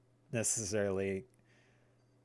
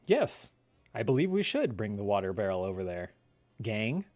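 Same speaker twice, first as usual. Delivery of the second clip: lower, square normal-guy voice; a touch deeper, straightforward cartoon leader; Fred; 4 semitones lower than usual. Gamer plays the gang's normal guy, lightly voiced and lower. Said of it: "Then Fred is just, like, a normal guy".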